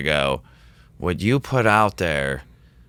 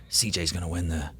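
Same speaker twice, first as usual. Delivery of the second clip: quietly at the table; 4 semitones lower, 9 dB quieter than usual. Retold or imitated. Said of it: "like, quietly at the table".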